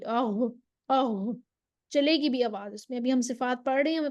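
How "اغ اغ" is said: اغ with a thick, continuous غ sound; heavy flowing ghain. Shown as a demonstration. Teacher shows the thick running ghain. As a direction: let the غ in اغ flow, heavy and unbroken. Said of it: "غائن کو موٹی آواز چلے گی".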